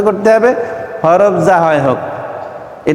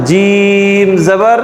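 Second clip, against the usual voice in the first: slow drill; much slower than usual. Shown as a demonstration. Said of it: "teacher drills letter vowels".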